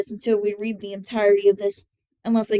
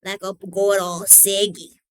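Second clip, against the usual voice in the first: smooth, low smoker-style drawl; lower, relaxed storyteller's tone; smooth reading voice; 4 semitones lower than usual. Shown as a demonstration. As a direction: slip into a smooth cigarette voice. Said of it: "so much more smooth".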